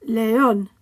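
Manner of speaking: León with ÓN stressed; stress on accented syllable. Shown as a demonstration. Teacher modelling written accents, León stressed at the end. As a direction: say León in Spanish, le-ÓN. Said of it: "stress the syllable that the accent is on".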